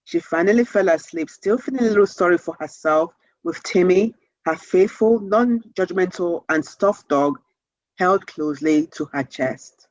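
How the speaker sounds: gentle read-aloud storytelling, slowing on the last lines; calm bedtime story narration. Acted. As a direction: read it to children winding down to bedtime. Reads the end of her chapter aloud.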